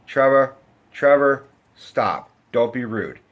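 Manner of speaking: imitating a mother's unimpressed scolding; bored mother. Mother telling her son off for being rude, mildly bored. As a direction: call the name, then drop to a weary reprimand. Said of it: "the mother just looks bored".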